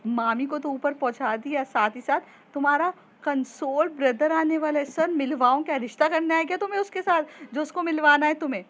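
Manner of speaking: mock her crush, rising to fast fury; jealous friend taunting loudly; taunting anger.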